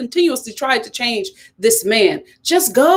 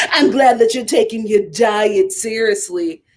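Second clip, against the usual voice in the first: another try at her voice; 3 semitones lower than usual. Retold or imitated. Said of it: "No, that is not her accent".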